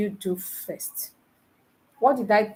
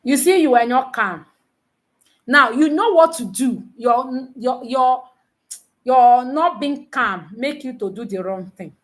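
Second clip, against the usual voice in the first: scolding; 2 semitones higher, 5 dB louder than usual. Real, not acted. Scolding the class for panicking.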